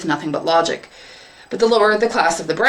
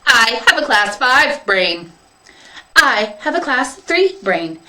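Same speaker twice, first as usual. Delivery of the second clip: field minder robot; 4 semitones higher than usual. Acted. Field minder claiming a better brain, coldly superior. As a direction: pronounce rank like a proud robot.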